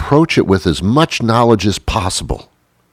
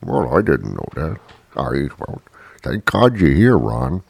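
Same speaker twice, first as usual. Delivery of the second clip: mom's meek reply; 5 semitones lower, 5 dB quieter than usual. Retold or imitated. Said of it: "She didn't know how to boil water".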